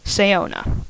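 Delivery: Sayona, three syllables, stressed OH; the chosen reading of the name, Sayona; name pronounced Sayona. Shown as a demonstration. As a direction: say Sayona as sigh-OH-nah, stress on the middle syllable. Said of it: "I have chosen to pronounce it as".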